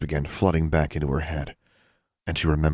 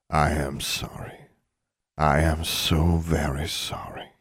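slow, hushed regret; sorrowful apology; slower than usual. Acted. Father apologising to his daughter, sorrowful. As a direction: apologise slowly and gravely.

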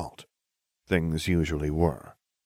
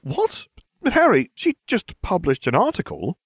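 very high, startled protest; sputtering; 12 semitones higher, 3 dB louder than usual. A narrator's reading. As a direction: sputter in high-pitched disbelief. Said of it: "She sputtered".

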